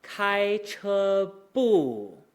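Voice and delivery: high level "Kai che", then "bu" sliding down low; very slow "Kai che bu" with a deep final fall; natural exit. Shown as a demonstration. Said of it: "then goes really low".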